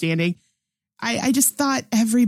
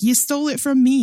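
annoyed complaint; 6 semitones higher, faster than usual. Retold or imitated. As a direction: imitate an irritated detective protesting. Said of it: "he was just so annoyed".

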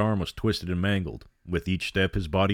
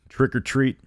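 sinister sing-song; 6 semitones higher, 4 dB louder than usual. Acted. Monster child's crooked grin.

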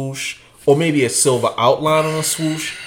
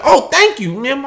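high mock thanks; 11 semitones higher than usual. Davon thanking the friendly guy in line, high laughing voice. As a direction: chirp it sweetly with a laugh. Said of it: "I'm like".

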